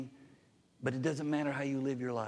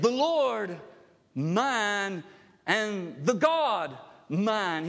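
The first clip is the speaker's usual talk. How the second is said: loud, slow, higher declaration; emphatic declaration; 6 semitones higher, 5 dB louder, much slower than usual. Retold or imitated. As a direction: proclaim it with everything. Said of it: "what Thomas said was emphatic".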